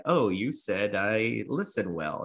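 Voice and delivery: slow, drawn-out acted quote; mock parroting. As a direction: imitate clumsily echoing someone's words. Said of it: "parroting back what somebody says".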